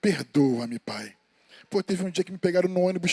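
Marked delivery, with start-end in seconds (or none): 0.0-1.2 slow prayer. Retold or imitated. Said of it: "eu começo a falar assim".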